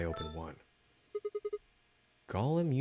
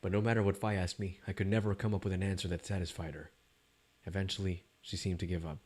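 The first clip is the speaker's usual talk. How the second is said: story narration; 2 semitones lower than usual. A narrator's reading. Story narration between lines.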